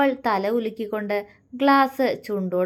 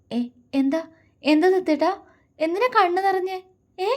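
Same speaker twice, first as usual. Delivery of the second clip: much higher anxious questions; worried; 10 semitones higher than usual. A narrator's reading. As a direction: fret over his tears. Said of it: "അവനോട് ആകുലതയോടെ ചോദിച്ചു".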